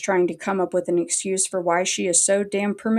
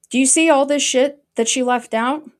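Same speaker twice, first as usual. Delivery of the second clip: loud, high, indignant challenge; raised-voice indignant question; 6 semitones higher, 5 dB louder than usual. Real, not acted. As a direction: demand it, pitched up and loud. Indignant at cropped screenshots.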